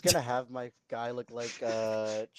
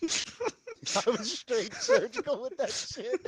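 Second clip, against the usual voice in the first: mock repeat; 9 semitones higher, slower than usual. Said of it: "I heard that shit".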